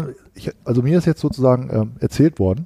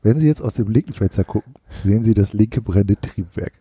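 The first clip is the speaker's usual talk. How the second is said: airline pilot announcement; 4 semitones lower than usual. Pretend. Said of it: "hier spricht Ihr Kapitän".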